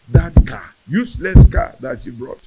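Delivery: loud, scornful retold complaint; indignant mother. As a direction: act out a mother dismissing a gift in anger. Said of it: "She kept on screaming and screaming".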